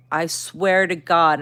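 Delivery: slow, emphatic, mildly angry oath; retold anger. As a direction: swear it with drawn-out exasperation. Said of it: "and I'm angry".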